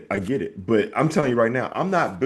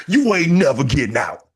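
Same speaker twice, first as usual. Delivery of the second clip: louder, higher Southern taunt; Bubba Dub's taunt; 4 semitones higher, 6 dB louder than usual. Retold or imitated. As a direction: crow it like a Georgia cousin. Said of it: "He'll be like".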